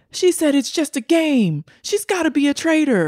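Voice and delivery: high-pitched imitation of accusers; hammed-up, high accusing quote; mock accusation. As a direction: mimic them high and indignant. Mimics accusing players.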